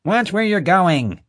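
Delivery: high, slow, angry yell. A narrator's reading. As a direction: bellow it at the lizard actor. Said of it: "Marge yelled".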